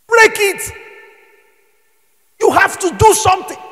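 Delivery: preacher's shout; high shouted command. Real, not acted. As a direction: push the crowd to act. Preacher exhorting congregation.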